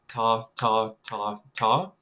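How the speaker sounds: four evenly stressed "ta, ta, ta, ta"; straight even tas. Shown as a demonstration. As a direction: give each "ta" the same weight, no accents. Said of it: "four straight tas".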